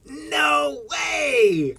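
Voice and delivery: surprised shout. Real, not acted. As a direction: blurt it out, amazed. Stunned by the coincidence.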